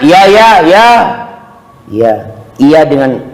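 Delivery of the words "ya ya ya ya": an impatient, dismissive "ya, ya, ya"; grudging yes. Retold or imitated. Annoyed child answering the mother's request, grudging. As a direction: brush off the mother with a curt yes. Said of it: "intonasi yang tidak mengenakkan".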